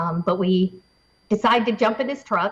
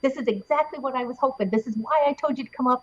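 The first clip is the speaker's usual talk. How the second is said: higher excited quoting; excited witness; 4 semitones higher than usual. Retold or imitated. Imitating the witness as the craft arrives, higher and excited. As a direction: gush like a thrilled believer. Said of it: "He's like".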